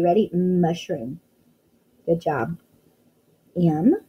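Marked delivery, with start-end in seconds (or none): 0.3-1.2 Mushroom said slowly and clearly with the class; sounding out. Shown as a demonstration. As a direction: model the word Mushroom for children. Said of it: "Say it with me".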